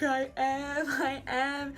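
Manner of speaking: acting out crying at the door; imitated tearful confession. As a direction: blurt it like a mock weepy admission. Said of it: "I'm crying at the doorway and I'm like".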